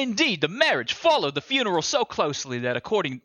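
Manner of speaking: put-on Hamlet line in a shaky-sure Jersey accent; attempted Jersey accent. Reciting Hamlet to show friends a Jersey accent, attempted Jersey accent. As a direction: put a rough Jersey twang on Shakespeare. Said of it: "how to do Jersey Hamlet".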